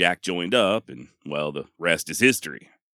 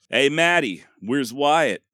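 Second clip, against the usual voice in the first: higher-pitched movie-line holler; mild holler, raised in pitch; acted holler; 5 semitones higher, slower than usual. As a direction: call it out like hailing someone at a train station. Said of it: "step out of the darkness and holler".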